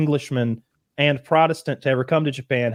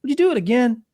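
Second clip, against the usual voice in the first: higher, lightly voiced sly request; mock sly lord; 9 semitones higher than usual. Lord retold to friends, lightly voiced sly ask. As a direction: tease him into diving again. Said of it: "And the guy's like".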